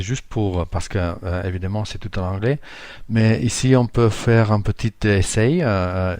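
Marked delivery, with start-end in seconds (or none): 3.1-5.6 non-native French accent; foreign accent in french. Real, not acted. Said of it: "je suis pas francophone, excusez-moi mon français".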